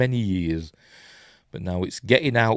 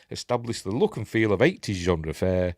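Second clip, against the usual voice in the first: reading through a burp; a burp breaks the words; 3 semitones lower, 3 dB quieter than usual. Real, not acted. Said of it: "pardon me, I'm burping".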